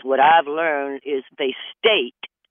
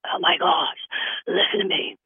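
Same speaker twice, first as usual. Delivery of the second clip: mock gushing. New lover gushing about their perfect match, mock excited. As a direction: gush like you've found the one.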